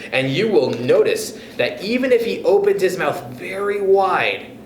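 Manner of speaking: lively read-aloud storytelling voice; story narration. A narrator's reading. Narrator reading the chapter to young listeners, lively storytelling. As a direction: tell it like a bedtime story to kids.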